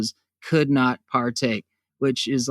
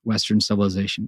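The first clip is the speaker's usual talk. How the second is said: mock Indian accent; 8 semitones lower, 5 dB quieter, much faster than usual. Shown as a demonstration. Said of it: "shitty impression of, uh, how Indians speak".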